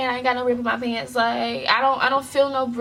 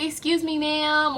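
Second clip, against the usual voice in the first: tag politely getting attention; 6 semitones higher than usual. Retold or imitated. Models how girl should approach.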